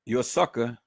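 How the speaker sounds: soft, low-key repeat of a jab; muted insult. Real, not acted. Commentator repeats the sucker insult to Trey Gay, quietly. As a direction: drop it quietly as a settled verdict.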